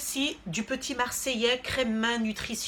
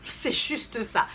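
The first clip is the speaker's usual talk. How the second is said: laughing whisper; slower than usual. Real, not acted.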